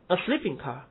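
sleeping stressed, car unstressed. Shown as a demonstration. Teacher showing students the gerund stress, stress on sleeping. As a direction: hit sleeping, let car drop. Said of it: "它不要重读".

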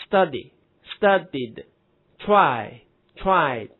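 "studied" and "tried" ending in a voiced d; slow word drill, d closing "studied", "tried"; -ied with voiced d. Shown as a demonstration. Teacher drilling y-ending verbs, "tried" ending in voiced d. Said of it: "读音也是的".

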